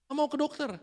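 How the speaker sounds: put-on a child refusing, mildly whined; meniru rengekan anak. (anak menolak ke dokter, merengek tinggi)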